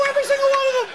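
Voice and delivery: high-pitched shouted insistence; indignant shout. Acted. Teacher insisting on a claim about Scottish people, indignant shout. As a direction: burst out, insisting on every word. Insists on sweeping insult again.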